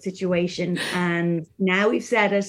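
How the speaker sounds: croaky, frog in the throat; rough, smoky-sounding throat; hoarse voice. Real, not acted. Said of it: "a bit of a frog throat situation".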